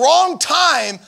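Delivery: high, loud "back off" yell; hammed-up indignant shout; mock angry outburst. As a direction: act out telling a pest to get lost. Acts out what he wanted to yell.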